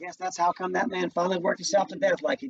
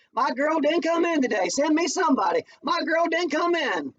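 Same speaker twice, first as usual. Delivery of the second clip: higher, louder put-on bossy employer; mock boss yelling; 11 semitones higher, 4 dB louder than usual. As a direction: play the demanding white lady on the phone, higher and louder. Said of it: "screaming at them".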